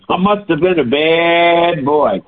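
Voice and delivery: lightly voiced naughty little boy; mock naughty boy. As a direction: tease yourself like a naughty child. Mock self-scolding aside.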